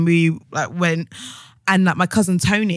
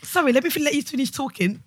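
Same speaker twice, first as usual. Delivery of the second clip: mock-polite, higher and softer; overly polite; 4 semitones higher, 5 dB quieter than usual. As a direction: apologise meekly for cutting in. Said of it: "We're so polite".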